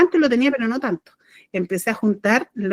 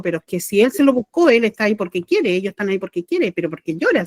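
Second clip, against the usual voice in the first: cold. Retold or imitated. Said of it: "muy frío, me dijo".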